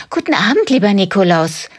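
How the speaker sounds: bright, welcoming woman's voice; a mother greeting her guest. Acted. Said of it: "hört Karl-Heinz eine Frauenstimme". (freundliche Frauenstimme)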